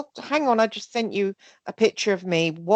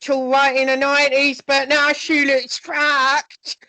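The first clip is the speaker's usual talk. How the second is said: mock-snide put-down; imitating a singer; 6 semitones higher, 4 dB louder than usual. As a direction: sneer it out as the critic. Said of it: "Brian Harvey saying".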